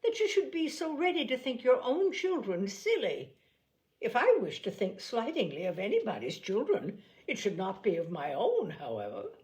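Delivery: lightly voiced fussy mother; Mrs Bennet. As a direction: play the offended mother, pitch up. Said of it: "said Missus Bennet".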